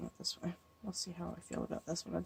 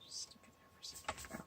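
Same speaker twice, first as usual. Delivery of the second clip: whispering; 15 dB quieter than usual. Real, not acted. Crafting quietly, murmuring to self.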